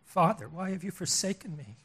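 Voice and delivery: understated anguished cry; restrained, acted plea of abandonment; Jesus. Preacher voices Jesus forsaken by his Father, subdued anguish. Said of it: "Jesus cries out".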